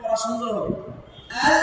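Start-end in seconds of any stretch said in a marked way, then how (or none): 1.4-1.6 আল with the tongue kept on the l; held l. Shown as a demonstration. Teacher shows students the correct ending, l held on. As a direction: hold the l in আল long, no vowel after. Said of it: "উপরে লেগে থাকে জিহ্বাটা".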